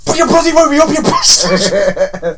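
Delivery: high, loud outraged yell; loud comic grievance, last words dragged out; mock-angry outburst. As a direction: shout it in hammed-up fury. Acting out anger at being woken.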